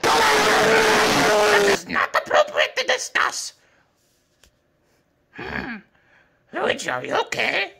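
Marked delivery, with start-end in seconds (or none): 0.0-3.5 slow, prim teacher voice; mock stern teacher. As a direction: primly shut the question down.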